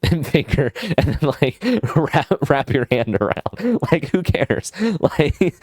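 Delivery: high, giggling through the words; real amused laughter breaking into speech; laughing. Real, not acted. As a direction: talk while cracking up. Amused by his own prank advice.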